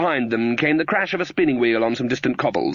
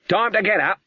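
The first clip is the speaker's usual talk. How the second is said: higher, brightly chirpy wake-up call; unusually cheerful; 7 semitones higher than usual. Acted. Stern witch waking the sleeping princess, forced cheerful. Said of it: "in an unusually cheerful voice".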